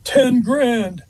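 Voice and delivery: short gruff imitation, pitched well up; Jimmy. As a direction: put on a high, gruff voice. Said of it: "in his gruff voice".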